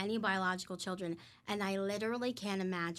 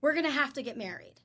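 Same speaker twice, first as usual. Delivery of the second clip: excited; 5 semitones higher, 5 dB louder than usual. Retold or imitated. Blurting to Dave in a panic.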